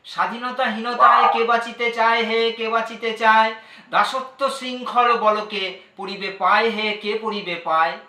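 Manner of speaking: formal Bengali poem recital, projected above conversational talk; poetry recitation. Acted. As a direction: declaim rhythmic patriotic verse. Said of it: "একটা কবিতা আমি, আহ, করছি".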